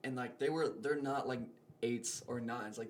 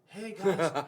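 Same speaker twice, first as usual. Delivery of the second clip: imitated call; 5 semitones higher, 7 dB louder than usual. Imitating buddy running back to them.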